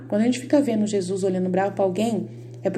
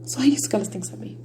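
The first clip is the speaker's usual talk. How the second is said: emphatic whisper; faster than usual. Real, not acted. Stressing the one thing to know.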